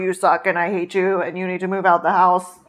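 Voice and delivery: stiff robotic monotone joke. Pretend. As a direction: say it like a deadpan robot. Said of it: "I said it in a robot voice".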